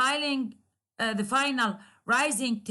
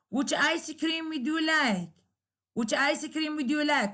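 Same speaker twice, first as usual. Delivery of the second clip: high start on "Which", fall on "like"; falling question tune; 4 semitones higher than usual. Shown as a demonstration. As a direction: ask it high, then drop on "like". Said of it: "lower down your tone".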